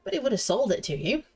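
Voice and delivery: professor's mild scolding, with swooping pitch; lightly voiced reproachful professor. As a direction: play a professor tutting over a needless killing.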